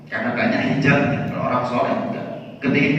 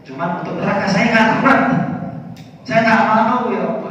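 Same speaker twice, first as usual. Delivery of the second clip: higher, louder begging; pleading whine; 7 semitones higher, 3 dB louder than usual. Acted. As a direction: whimper to God like a child. Abu Nawas whines to God. (merengek memohon kepada Allah dengan suara tinggi)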